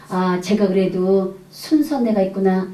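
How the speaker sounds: soft, slow musing; inner thought. Retold or imitated. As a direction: think it aloud to yourself, slowly. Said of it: "저는 속으로 그랬습니다". (속으로 되뇌듯 작고 느리게)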